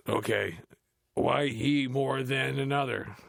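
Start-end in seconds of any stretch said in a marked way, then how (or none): 1.1-3.2 slow, higher, louder comic drawl; Cedric the Entertainer impression. Mocking the script as Cedric the Entertainer, slow and loud. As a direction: play it like a stand-up comic. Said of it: "said Cedric the Entertainer".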